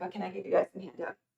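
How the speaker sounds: soft, croaky, hoarse voice pushed out with strain.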